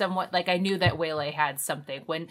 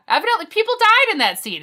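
laughing; 13 semitones higher, 7 dB louder, faster than usual. Real, not acted. Laughing at the absurdity.

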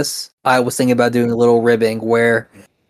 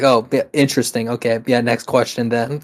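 deadpan trolling; 2 semitones lower, 4 dB quieter than usual. Retold or imitated. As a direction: say it flat and quiet just to mess with them. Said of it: "just to mess with them".

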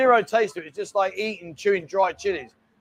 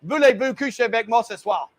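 hammed-up French. Shown as a demonstration. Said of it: "would you like my French?".

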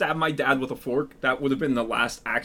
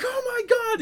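mock panic.

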